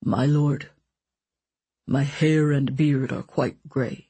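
low coaxing tone. A narrator's reading. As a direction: coax him gently, slowly. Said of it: "said in a low, coaxing tone".

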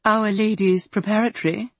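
prim, upper-class school tone; posh voice. Acted. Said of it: "Sarah put on a posh voice".

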